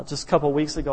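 ordinary delivery

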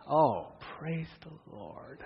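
slow, laughing praise of relief; real relieved chuckle. Real, not acted. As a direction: sigh out your thanks with a laugh. Relief at getting a warning.

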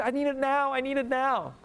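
put-on high, demanding child's whine; whiny immature kid. Preacher mimicking impatient child wanting it now. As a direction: whine it like a kid who can't wait. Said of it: "It's only immature kids".

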